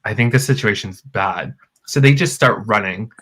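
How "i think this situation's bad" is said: hushed worry. Retold or imitated. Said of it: "she's like".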